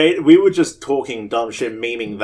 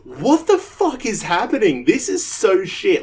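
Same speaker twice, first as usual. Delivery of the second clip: mock outrage; 8 semitones higher than usual. Reacting mockingly to movie.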